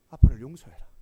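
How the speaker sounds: crying out for forgiveness, loud and rising; a loud, rising cry of 아빠를 용서해라; loud tearful plea. Retold or imitated. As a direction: beg your son aloud, voice swelling. Father begs sons' forgiveness.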